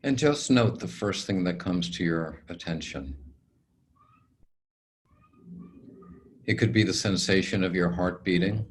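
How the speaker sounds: calm, unhurried meditation guide; guided meditation. Acted. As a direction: ease the listener into stillness, leaving long pauses.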